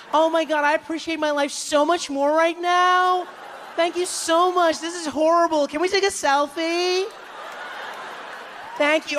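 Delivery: gushing tourists. Retold or imitated. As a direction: gush like awestruck tourists. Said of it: "the people in our tour group were like".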